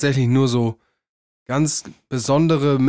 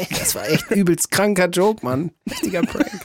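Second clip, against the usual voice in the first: put-on high, whiny bragging teen; teen boys bragging; 6 semitones higher than usual. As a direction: brag like a dumb teen. Acted teens boasting.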